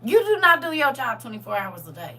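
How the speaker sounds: high, loud exasperated rant; loud venting. Real, not acted. Vlogger venting about church expectations, loud and high.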